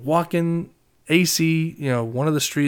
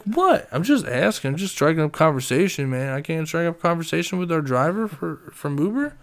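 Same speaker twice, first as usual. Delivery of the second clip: put-on higher, defensive drunken innocence; innocent drunk; 4 semitones higher than usual. Drunk friend defending his questions to the Uber driver, mock innocent. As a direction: protest like you did nothing wrong. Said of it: "He's like".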